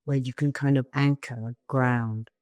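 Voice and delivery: calm meditation guiding with long pauses; spacious, unhurried instructions, phrase by phrase; guided meditation. Real, not acted. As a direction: guide them gently into the body.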